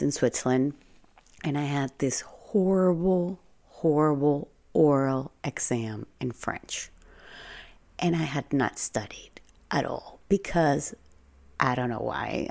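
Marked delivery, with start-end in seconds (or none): 1.4-10.9 hushed, half-whispered recollection; hushed telling. Real, not acted. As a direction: drop to a breathy whisper for the dreaded exam. Whispering the scary exam part.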